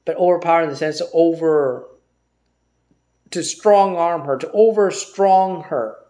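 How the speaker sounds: emphatic, punched-out charge; forceful preaching. Acted. Preacher passing God's charge to the believers, forceful. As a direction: drive the key words home like a preacher.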